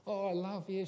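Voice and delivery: lightly voiced mum praising her child; gushing mum. Mum praising her children after parents' evening, gushing. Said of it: "my mum would come in and she'd say".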